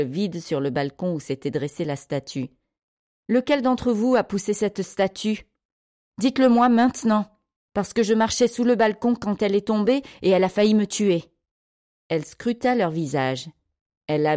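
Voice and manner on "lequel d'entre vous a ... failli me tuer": higher-pitched accusing interrogation; mildly heated, insistent questioning; angry demand. A narrator's reading. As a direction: demand a confession from the culprit. Angry adult confronts children about statue.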